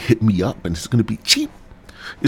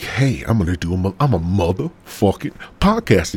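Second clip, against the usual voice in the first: cocky boast; 3 semitones higher than usual. Retold or imitated. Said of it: "And I'm, like".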